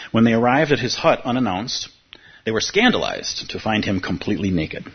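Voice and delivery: teacher reading a parable to students, amused; story reading. Acted. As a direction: read the tale to the room, savouring it. Reads a Taoist story aloud.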